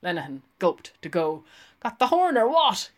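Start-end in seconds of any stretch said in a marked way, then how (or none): 1.8-2.9 jeering. A narrator's reading. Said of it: "he said".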